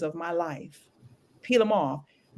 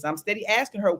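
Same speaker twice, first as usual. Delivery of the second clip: normal talking voice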